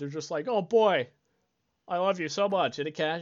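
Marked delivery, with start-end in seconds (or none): 0.5-2.8 happy, eager, overjoyed pet dog voice. Comparing cats and dogs, the speaker imitates a happy dog talking to its owner. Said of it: "dogs are just like happy".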